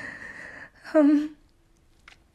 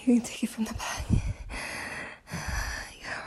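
whispering; 7 dB quieter than usual. Real, not acted. Intimate whispered request.

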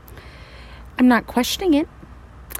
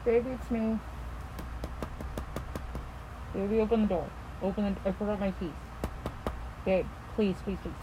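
pleading quietly; 16 dB quieter, faster than usual. Acted.

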